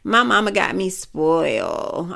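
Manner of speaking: slow, lightly mimicked boast; mocking spoiled brag. Speaker imitates people bragging about being spoiled, mild slow mockery. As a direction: draw the words out in mild mockery. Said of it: "Just to be like".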